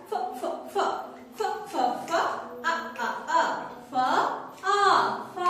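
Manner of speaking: voiceless puffs of ফ, then আ, blended into ফা; teacher's drill of ফ, আ, ফা; phonics sounding-out. Shown as a demonstration. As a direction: chant ফ and আ in short beats, then join as ফা. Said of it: "কিভাবে বলবো আমরা".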